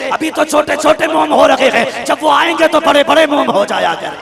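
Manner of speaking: high, loud, rapturous telling; excited retelling. Acted. Amina telling her father-in-law of the talking stone, excited. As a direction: marvel aloud at the speaking stone.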